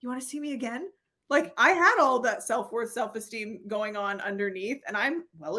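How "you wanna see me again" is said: small surprised question. Retold or imitated. Surprised, small reply to partner.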